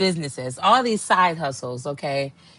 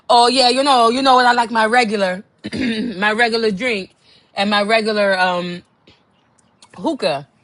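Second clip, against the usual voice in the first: loud show-off regular; 4 dB louder than usual. Retold or imitated. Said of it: "the dude's like".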